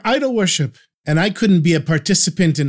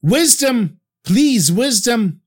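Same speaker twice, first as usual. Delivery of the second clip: shouting; 5 semitones higher, much slower than usual. Retold or imitated. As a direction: cry out for wisdom. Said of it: "immediately I shouted out".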